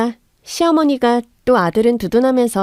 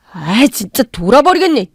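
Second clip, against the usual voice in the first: exasperated; 5 dB louder than usual. Acted. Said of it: "답답하다는 듯이 가슴을 치니까".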